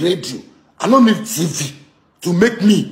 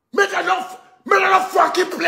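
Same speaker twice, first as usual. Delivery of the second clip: heated rant; 8 semitones higher than usual. Real, not acted. Heated political rant with cursing.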